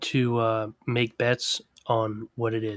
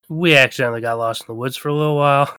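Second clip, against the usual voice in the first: louder, fast rushed admission; blurted confession; 5 dB louder, much faster than usual. Shown as a demonstration. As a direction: rush it out all at once.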